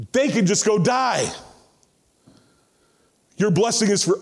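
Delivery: mock Jonah demanding God's favour only for his own people; entitled bigot's demand. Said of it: "He's basically saying".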